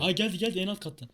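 loud, high panicked warning; alarmed warning. Real, not acted. Monster approaching in horror game.

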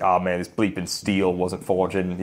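slow mock-Australian grumble; put-on redneck Aussie accent; outback Australian. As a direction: imitate an Australian knife maker cursing. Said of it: "redneck outback Australian swearing".

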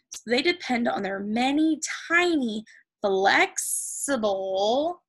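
slow, emphatic read-aloud; teacher reading facts to the class, key words stretched; reading to children. Acted. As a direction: read slowly, landing on each important word. Reads textbook aloud to pupils.

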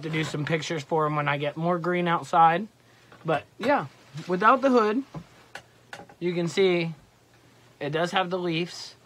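muffled by leafy mesh; speaking under camouflage veil; through a face mask. Real, not acted. Seen 3: Leafy mesh veil covers face and mouth throughout the labelled words.

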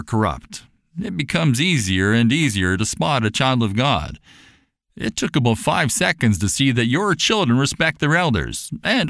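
a gentle mentor explaining with warmth; kindly benefactor. Acted. Mister Farnsworth explains to Papa, lightly voiced kindly gentleman.

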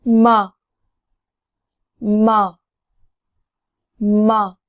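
뭐 said with lips like Korean 미음; sound demo. Shown as a demonstration. Teacher models 뭐 like Korean 미음, careful. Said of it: "따라해보세요".

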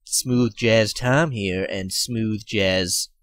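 slow, silky late-night DJ intro; smooth jazz radio host. Acted. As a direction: ease into it like a jazz station host. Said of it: "Don't know where I came up with that intro".

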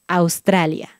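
"Australia" said at normal speed; brisk natural "Australia". Shown as a demonstration. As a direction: say "Australia" quickly and smoothly. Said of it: "después más rápido".

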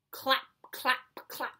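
separate, percussive claps; imitated horse hooves. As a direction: click each word out like a hoofbeat. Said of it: "He can sound like horse feet".

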